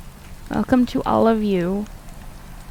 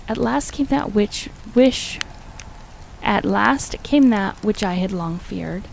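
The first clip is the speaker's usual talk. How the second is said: measured, formal gothic storytelling; story narration. Acted. Streamer reading Lovecraft aloud to viewers, measured gothic narration. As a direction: read it aloud with deliberate, weighty phrasing.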